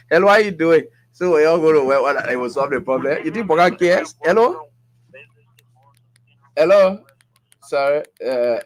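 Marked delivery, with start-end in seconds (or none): 0.1-7.0 loud, raised greeting down the phone line; calling out. Real, not acted. Radio host greeting the next caller, loud and raised. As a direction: call the caller in.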